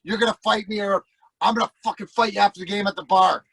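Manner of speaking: mock ticked-off ultimatum; pissed off. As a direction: issue a threat as a retold tough guy. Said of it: "Chase is all pissed off".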